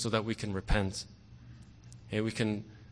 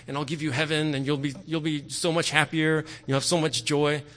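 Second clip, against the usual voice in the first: a touch higher, wheedling plea; mock begging; 4 semitones higher than usual. Preacher mocking a begging God for the congregation, pleading tone. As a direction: play a needy, pleading God in mockery. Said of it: "he's not begging you".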